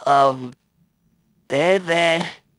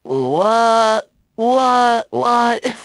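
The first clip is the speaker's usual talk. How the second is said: high, loud shocked what; 7 semitones higher, 5 dB louder, much slower than usual. Shown as a demonstration. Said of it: "Or am I sound like this?".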